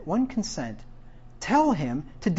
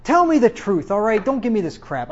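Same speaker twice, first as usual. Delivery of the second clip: exasperated demand; 4 semitones higher than usual. Acted. King to the sarcastic prophet, exasperated. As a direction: demand honesty, fed up with the act.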